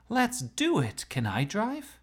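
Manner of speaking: high eager yell. A narrator's reading. Chloe eager to race Brock, yelling. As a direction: shout it like a dare. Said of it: "but Chloe yelled".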